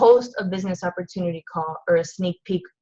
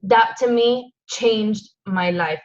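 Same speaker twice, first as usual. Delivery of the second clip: emotional; slower than usual. Real, not acted. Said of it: "I'm getting emotional".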